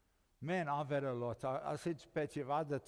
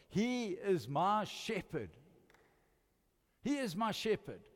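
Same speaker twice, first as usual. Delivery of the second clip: slow, with the weight on "He"; stress on he; 5 semitones higher, 4 dB louder, slower than usual. Retold or imitated. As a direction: lean on "He" as David would. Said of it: "David said that".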